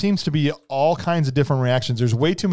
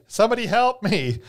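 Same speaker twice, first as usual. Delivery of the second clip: mock cry for help; 8 semitones higher than usual. Beverly calling out while already winning the fight, mock cry for help. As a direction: imitate a damsel calling out in a raised pitch. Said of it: "Beverly loves to yell for help".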